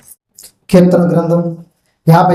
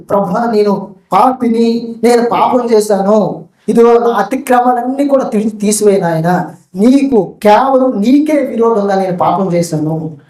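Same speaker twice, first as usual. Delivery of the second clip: weeping confession; 2 semitones higher than usual. Acted. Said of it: "ఏడుస్తూ".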